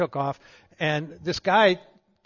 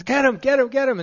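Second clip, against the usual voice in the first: louder, higher, urgent order from the back seat; general's order; 6 semitones higher, 3 dB louder than usual. Retold or imitated. General urges the pilot to chase the man, urgent. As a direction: egg the pilot on to chase him. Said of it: "he says".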